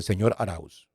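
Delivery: low, soft, deathly grave address; voz de muerte. Retold or imitated. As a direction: say it like a doctor with grim news. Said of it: "de muerte". (voz de muerte, baja y grave)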